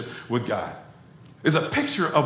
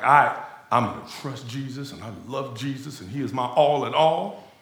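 super holy voice; 4 semitones lower, 4 dB quieter than usual. Retold or imitated. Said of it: "I don't know why I'm talking like that".

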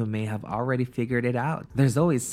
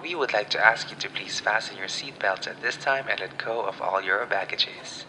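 pilot announcement. Pretend. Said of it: "this is your captain speaking".

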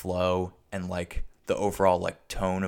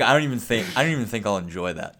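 mock girl voice; 3 semitones higher, 5 dB louder, faster than usual. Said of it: "she's like".

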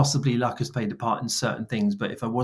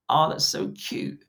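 mock cooing; 6 semitones higher, slower than usual. Imitating women cooing at puppy.

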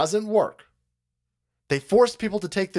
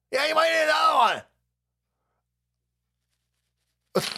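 mock shout; 11 semitones higher, faster than usual. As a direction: yell the warning as a joke. Mocking the official, louder.

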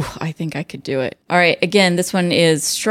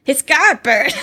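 higher-pitched, hammed-up British accent; attempted British accent; 6 semitones higher, 4 dB louder, slower than usual. Co-host says say it like they would, attempted British accent. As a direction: have a go at a British exclamation. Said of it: "say it like they would".

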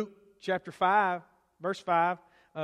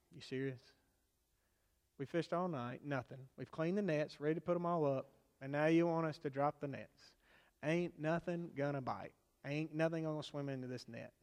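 softer, lower, weary grumbling; doubtful disciples; 4 semitones lower, 7 dB quieter than usual. Retold or imitated. Fishermen answer Jesus's order with a soft, weary doubt. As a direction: play tired fishermen who doubt it, softly.

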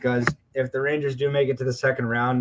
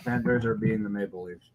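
mouth full; 2 semitones lower, 4 dB quieter than usual. Real, not acted. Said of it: "Sorry, I'm eating a protein bar".

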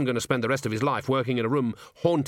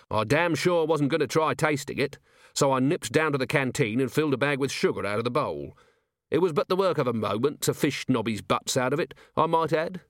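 lightly voiced commander recounting his cleverness; wry, pleased watch commander; 4 semitones higher than usual. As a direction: tell it briskly, with dry self-satisfaction.

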